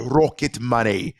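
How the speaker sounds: playful mock Scottish with a rolled R; drawn-out put-on Scottish brogue; Scottish accent. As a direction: roll the R hard, hammy Scottish. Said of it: "fun to say with a Scottish accent".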